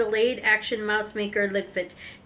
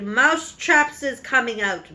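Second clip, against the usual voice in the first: a touch louder, gloating witch announcement; witch's shout; 3 dB louder than usual. Acted. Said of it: "raised her voice louder than ever and shouted".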